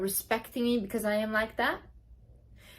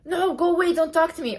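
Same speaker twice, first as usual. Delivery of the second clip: high, snippy brush-off; mock rude stranger; 7 semitones higher than usual. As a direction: play a stranger shooing you away. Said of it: "what is the worst that can happen?".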